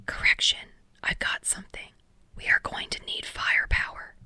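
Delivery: hushed, urgent team report; whisper. A narrator's reading. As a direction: whisper the correction, barely voiced. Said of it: "Sarah whispered as he inspected".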